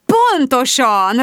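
slow, beaming agreement. Acted. Mary agreeing with Mum, beaming and slow. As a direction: glow with delight as you agree, slowly. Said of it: "ragyogott Mary".

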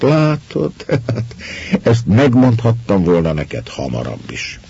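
high, amused line broken by a laugh. A narrator's reading. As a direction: tease him through laughter. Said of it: "Az asszony nevetni kezdett".

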